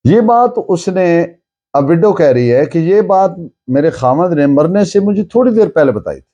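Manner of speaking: usual speaking voice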